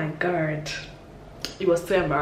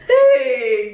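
retold wail; 4 semitones higher, 5 dB louder than usual. Retold cry after the cane.

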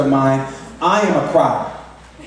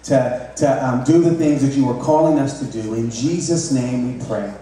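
lower-pitched, subdued prayer; softly closing prayer; 5 semitones lower, 3 dB quieter than usual. Real, not acted. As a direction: pray aloud to the Father, lower and gentler.

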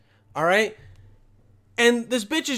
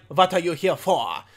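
mock French accent; 3 semitones lower than usual. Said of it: "the French people are like".

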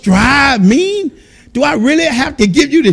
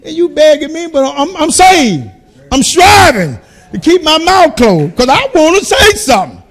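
almost said; 3 semitones higher than usual. Retold or imitated. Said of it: "I almost said".

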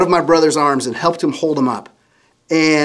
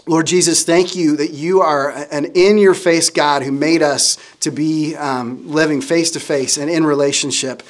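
prayer. Real, not acted. Leads closing prayer.

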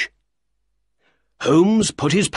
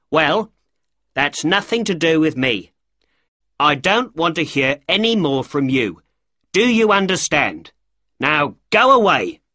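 angry dismissal; 4 semitones higher than usual. Acted. Shopkeeper ordering the little man to go away, angry. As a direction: drive him away in a temper.

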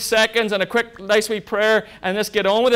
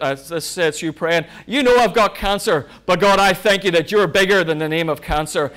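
thankful prayer; 3 dB louder than usual. Shown as a demonstration. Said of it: "In other words".

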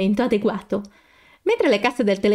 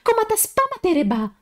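high fake gibberish language, indignant; hammed-up scolding in made-up Czech; a girl faking an angry foreign man; mock foreign scolding; 12 semitones higher than usual. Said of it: "comincia a sgridarle indignato".

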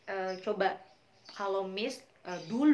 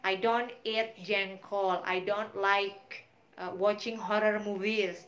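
slow example sentences; 3 dB louder, slower than usual. Shown as a demonstration.

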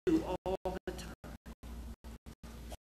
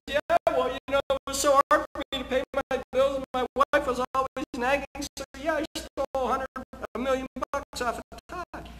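whiny thief excuse; 7 semitones higher, 4 dB louder than usual. Retold or imitated. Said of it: "when the guy says".

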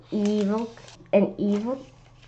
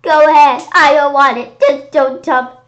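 pleading; 6 semitones higher, 10 dB louder than usual. Acted. Pleading with monster.

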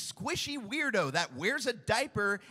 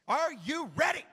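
excited hype; 7 semitones higher than usual. Shown as a demonstration. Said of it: "Oh, more enthusiasm".

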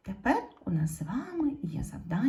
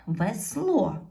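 "Весло" stressed on the final о; "Весло" with the weight on the last syllable; stress on second syllable; 4 dB louder than usual. Shown as a demonstration. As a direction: put the beat on ло in "Весло". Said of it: "наголос падає на".

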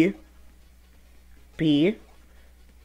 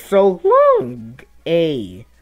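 put-on high, louder Italian-accented Mario call; Mario's Italian accent; 4 semitones higher, 4 dB louder, much slower than usual. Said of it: "It's just like this".

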